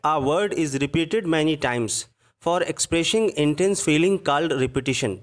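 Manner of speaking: each word read out very slowly for students; slow dictation reading. Shown as a demonstration. Teacher dictating a definition to students, very slow.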